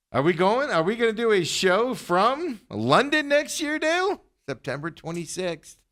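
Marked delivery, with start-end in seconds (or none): 0.1-4.2 high, hammed-up London accent; mock London accent. Host asking Dale about a London show, mock London accent. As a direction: ask it in a badly faked London voice, pitched way up. Continues his bad London impression.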